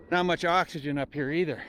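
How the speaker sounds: winded from the climb; short of breath at altitude. Real, not acted. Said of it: "It's a lot of work climbing up here".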